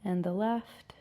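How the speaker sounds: unhurried yoga teacher cues with long pauses; measured, calm yoga-class delivery; guided yoga instruction. Acted. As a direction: guide them gently through each stretch, pausing between cues. Leads a gentle yoga practice.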